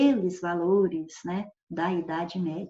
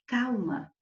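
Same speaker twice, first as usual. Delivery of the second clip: a quick calming warning to someone; mild warning; 3 semitones higher than usual. Shown as a demonstration. Teacher demoing calma as a mild warning. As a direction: say it as a gentle caution. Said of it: "se eu falar assim".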